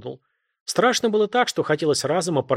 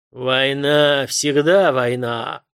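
growled; 5 dB louder, much slower than usual. A narrator's reading. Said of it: "рыкнул мужик".

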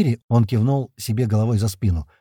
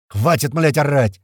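louder, fed-up shout; shouting everyone down, louder; snapping shout; 3 semitones higher, 4 dB louder, slower than usual. A narrator's reading. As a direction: bark to silence the room. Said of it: "не выдержал я и хлопнул".

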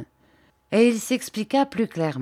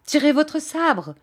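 commanding; 8 semitones higher than usual. A narrator's reading. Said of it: "commanda monsieur Lépine".

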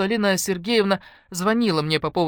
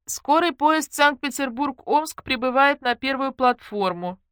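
station announcement; 7 semitones higher, slower than usual. Acted.

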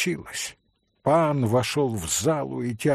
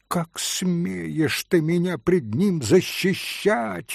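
screaming; 4 semitones higher, slower than usual. Acted. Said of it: "вопила Грушенька".

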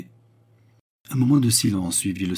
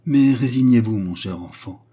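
almost maternal; 3 semitones higher, 7 dB louder than usual. A narrator's reading. Baccarat consoles the young count, almost maternal. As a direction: console him like a mother, easing down. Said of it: "avec un accent presque maternel".

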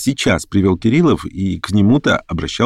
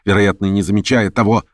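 ordinary delivery

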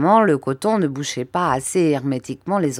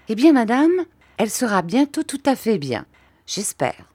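timid doctor; 5 semitones higher than usual. Acted.

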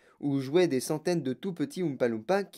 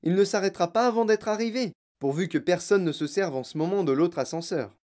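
showman inventor, airy; 4 semitones higher than usual. Acted. Inventor tells father the lift cannot stop, airily. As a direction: explain it with lively unconcern. Voices Wonka explaining.

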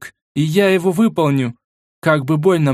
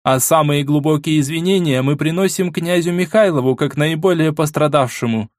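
loud strong voice; 5 semitones higher than usual. Acted. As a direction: proclaim it to the whole hall. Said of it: "проговорила громким сильным голосом".

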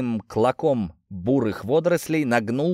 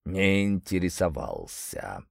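grumbling; 4 semitones lower, 5 dB quieter, slower than usual. Acted. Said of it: "проворчала нечисть".

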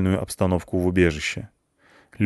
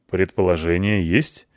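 worried; 3 semitones lower than usual. Acted. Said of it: "спросил озабоченно Палыч".

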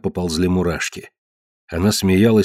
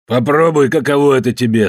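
raised, brutal gloating; cruel taunt; 5 semitones higher, 4 dB louder than usual. Acted. Ned to Marge after hitting her, cruel taunt. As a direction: rub her nose in the pain.

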